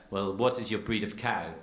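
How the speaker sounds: lightly imitated French cheesemaker; bad French accent. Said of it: "a French accent, but I'm terrible".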